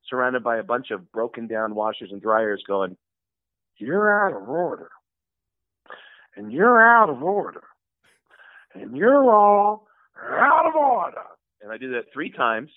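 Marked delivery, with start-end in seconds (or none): 3.8-7.6 movie-star courtroom rant, building louder; hammed-up indignant declaration, rising in pitch; Al Pacino. Comic as Pacino among broken washers, building impression. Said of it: "cut to me as Al Pacino". 8.7-11.2 slow, high, loud climactic shout; Al Pacino. Retold or imitated. Comic topping his third take as Pacino, drawn-out yelling impression. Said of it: "cut to me as Al Pacino".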